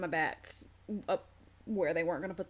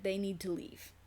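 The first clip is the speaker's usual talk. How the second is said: tight, softer words pushed through clenched teeth; 6 dB quieter than usual. Retold or imitated. To husband about his visiting parents, through clenched teeth. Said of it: "through very clenched teeth said".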